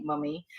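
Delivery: mummy with a British first vowel; British pronunciation. Shown as a demonstration. Teacher citing British usage, mummy with an uh vowel. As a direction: say mummy as the British do, not mommy. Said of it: "in the British way of saying".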